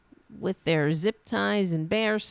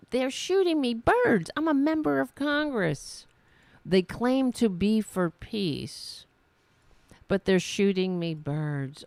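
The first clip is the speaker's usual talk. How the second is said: mock indignation. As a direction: parody her wounded outrage. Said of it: "Did you hear her?".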